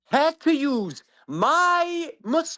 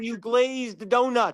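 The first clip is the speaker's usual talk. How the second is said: slow taunt; 5 dB quieter, much slower than usual. Real, not acted. Taunting opponent in debate.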